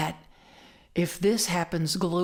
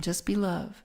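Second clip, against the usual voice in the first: calm. Retold or imitated. Teacher's calm answer to panic.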